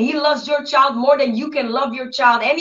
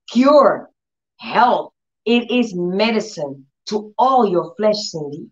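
God speaking solemnly; 2 semitones lower, slower than usual. Retold or imitated. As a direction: gently imitate God's deliberate assurance. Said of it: "So they would talk to me like that".

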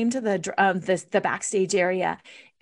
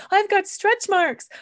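mock self-doubt; 9 semitones higher, 3 dB louder, slower than usual. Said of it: "perfectionist hangups".

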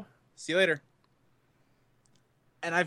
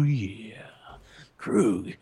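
sexy whisper; 5 semitones lower than usual. Pretend. Mock sexy whispered outro.

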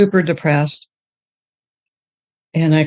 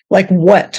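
retold indignant comeback, a bit louder; mad retort; 5 dB louder than usual. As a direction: throw it back with mild mock anger. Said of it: "And I'm mad at him".

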